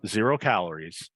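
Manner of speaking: upbeat host selling a drink; live ad read. Acted. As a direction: pitch it like a live commercial.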